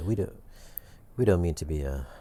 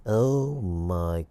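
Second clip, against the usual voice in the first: very slow, stretched-out British gushing; drawn-out UK-accent awe; put-on UK accent; much slower than usual. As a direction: savour it in a mock British accent. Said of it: "Why are you using a U K accent?".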